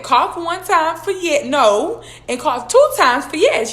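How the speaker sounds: mock-urgent whisper-game instructions said loud; loud correction. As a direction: lean in and repeat the instructions deliberately. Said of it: "so I said".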